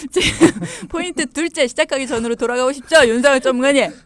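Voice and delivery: loud, high teasing through laughter; amused teasing. Real, not acted. Host teasing the embarrassed expert about the second point, laughing. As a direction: rib them loudly, barely over the giggles.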